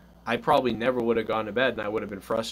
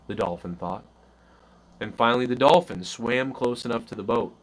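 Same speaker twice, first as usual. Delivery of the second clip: bedtime story reading; 2 semitones higher than usual. Acted. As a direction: tell it like a bedtime tale to the kids. Reads an improvised bedtime story.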